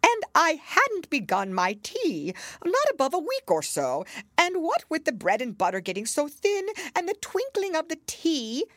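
trembling voice. A narrator's reading. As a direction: beg the king in fear. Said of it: "in a trembling voice".

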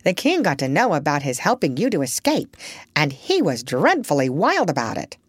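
put-on chatty old parrot, prim and knowing. Parrot answers.

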